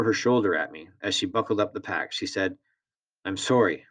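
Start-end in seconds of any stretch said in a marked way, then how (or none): 3.2-3.9 calmer. Acted. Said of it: "in a more normal tone".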